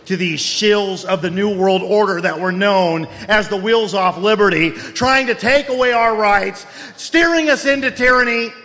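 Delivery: ranting himself into a frenzy; carried away. Acted. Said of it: "I get a little carried away sometimes".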